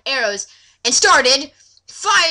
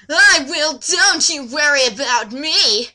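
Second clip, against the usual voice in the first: mock shout; 3 dB louder, slower than usual. Gandalf reassures, shouted.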